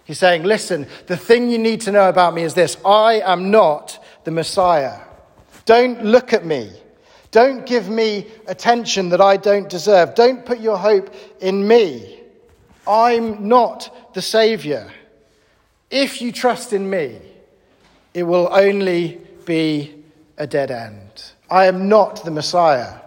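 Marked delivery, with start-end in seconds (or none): 0.4-14.9 deliberate, insistent disclaimer, key words leaned on; firm and measured, each denial landed; emphatic. Acted. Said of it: "He's being emphatic". 15.9-22.9 deliberate warning with weighty pauses; measured, insistent prophet's warning; emphatic. Acted. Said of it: "He's being emphatic".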